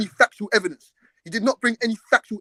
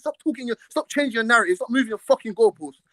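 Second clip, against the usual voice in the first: higher-pitched, exasperated demands; heated rebuke; 4 semitones higher than usual. Real, not acted. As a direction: fire back at an opponent in frustration. Heated argument, rebuking the other man.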